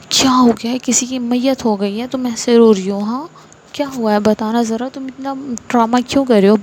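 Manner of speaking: understated scolding, little raise in volume; mild angry scolding. Acted. Angry mother berating daughter before her engagement, mildly cross scolding. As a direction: scold in mock exasperation, only lightly heated. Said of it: "چلانے لگتی ہیں".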